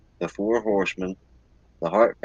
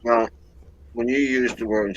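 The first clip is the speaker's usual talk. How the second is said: eating while talking; 3 semitones higher than usual. Real, not acted. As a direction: mouth full of pizza. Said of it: "sorry, I'm eating pizza right now".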